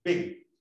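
BIG with a short, quick vowel; sonido corto. Shown as a demonstration. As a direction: keep the vowel in BIG brief. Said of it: "¿Cuál es corto y cuál es largo?". (BIG con I corta)

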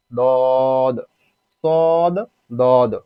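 দদ, সদ, দদ each held long, final d bounced; drawn-out দদ, সদ with released endings; elongated with qalqala. Shown as a demonstration. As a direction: stretch each of দদ and সদ on a level note. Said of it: "চার আলিফ পরিমাণ টানিয়া পড়তে হবে".

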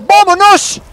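loud, high yell; battle cry. Real, not acted. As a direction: charge in shouting. Charging into the fight. (grito de guerra muy fuerte y agudo)

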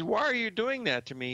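high, pained why-me plea; dismayed protest. Retold or imitated. Retelling his protest to a mentor, high dismayed plea. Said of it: "I said".

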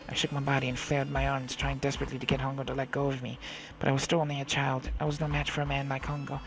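measured first-person storytelling; story narration. A narrator's reading. Girl recalls slipping back into the ship, measured narration. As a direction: narrate a tense childhood memory evenly.

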